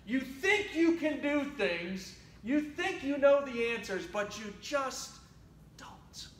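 firm correction that fades almost to a whisper; fatherly reproof. Acted. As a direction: echo the scolding dad, then drop away at the end. God reproves her as dad did.

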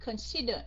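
Consider with the accent on SI; stress on second syllable. Shown as a demonstration. Teacher confirming the stressed syllable, Consider with weight on SI. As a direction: lean on the middle of Consider. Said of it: "straight on the second one".

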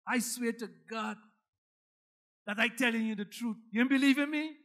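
put-on lightly Guyanese-accented oath, rising at the end; a mild Guyanese turn on the swearing. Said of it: "Guyanese say".

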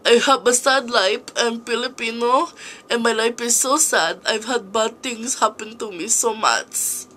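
lightly voiced Filipino auntie; a hint of a sad Filipino auntie; Tita Auntie voice. Introducing character Tita Auntie, lightly voiced auntie. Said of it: "there's Tita Auntie".

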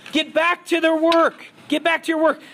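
loud, snapped command; angry order. Acted. Pharaoh orders Moses and Aaron back to work, loud. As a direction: drive them back to work.

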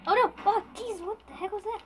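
sudden high startled cry; startled yell. Real, not acted. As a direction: jump at the fireball, shouting. Sudden attack in the game.

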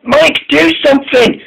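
high, urgent storybook plea; desperate cry. A narrator's reading. James calls to Mike while derailed, desperate cry. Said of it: "he cried".

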